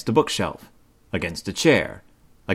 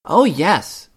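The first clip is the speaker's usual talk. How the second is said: high, louder apologetic cub; sorry cub; 9 semitones higher, 5 dB louder than usual. A narrator's reading. Brother Bear apologizing to Mama, sorry. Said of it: "said sister".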